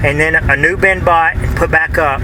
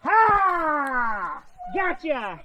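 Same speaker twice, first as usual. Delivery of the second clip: excited; 11 semitones higher, 9 dB quieter, much slower than usual. Real, not acted. Grabbing the cat.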